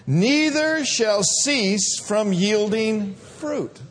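slow, measured reading aloud; scripture reading. Acted. Pastor leading congregation in scripture, slow reading. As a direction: read it slow with the church.

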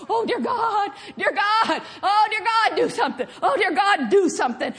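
mock desperate plea. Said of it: "acting like God has fallen off".

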